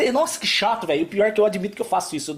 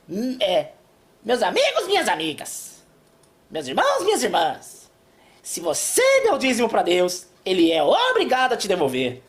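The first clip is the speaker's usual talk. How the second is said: Edir Macedo impression. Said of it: "tipo Edir Macedo, que diz assim".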